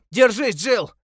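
high, loud encouraging shout. A narrator's reading. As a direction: call out to hold on. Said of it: "закричал он". (громкий крик)

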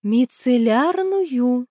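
Мицеллярную drawn out very slowly, with weight; meaningfully. A narrator's reading. Tatyana explains the water to Alexander, very slow and weighty. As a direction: stretch Мицеллярную syllable by syllable. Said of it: "со значением ответила Татьяна".

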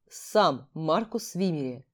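slow, low, stony measured words. Acted. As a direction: carve out each word like stone. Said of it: "каменным голосом отчеканил".

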